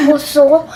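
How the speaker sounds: "Croissant" said kwassan, French style; a lightly mocking French-style "Croissant"; mom's croissant. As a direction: mimic how mom says "Croissant". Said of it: "That's how she says croissant".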